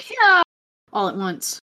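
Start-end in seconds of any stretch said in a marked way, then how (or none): 0.1-0.4 high, loud triumphant yell; cheering yell. Acted. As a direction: cheer it out at full blast. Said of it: "And then we all go".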